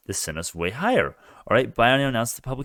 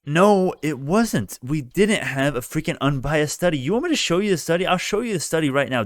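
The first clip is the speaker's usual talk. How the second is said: heated objection; 7 semitones higher than usual. Real, not acted. Vlogger snapping back at the stock panel, heated. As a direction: push back hard at the claim. Angry rebuttal to video clip.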